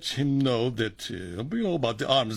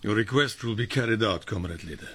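put-on English with a heavy Russian accent. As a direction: play it as a Russian agent. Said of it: "use your Russian accent".

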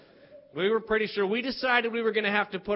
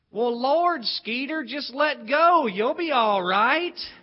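slow, drawn-out, unbothered teacher reassurance; lightly voiced teacher brushing off the danger; teacher calmly tells Skeeter to let go, slow and unbothered; unfazed teacher; 3 semitones higher, 5 dB louder, slower than usual. Teacher calmly answers the kids.

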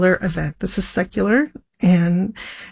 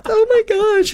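overwhelmed exclamation; 13 semitones higher than usual. Retold or imitated. Overwhelmed by the news.

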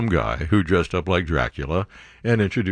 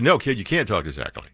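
normal talking voice

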